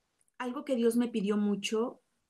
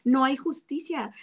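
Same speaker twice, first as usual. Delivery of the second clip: higher-pitched, mildly retold anguished protest; angry at God; 3 semitones higher than usual. A woman retelling her protest to God, raised and anguished. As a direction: replay the anger at God with a lifted voice, not a full shout. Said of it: "Y yo gritaba y lloraba y decía, enojada con Dios".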